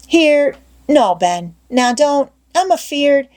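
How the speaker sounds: a touch of a hammed-up scared boy; Tom, mock fear. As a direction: ham up the fear.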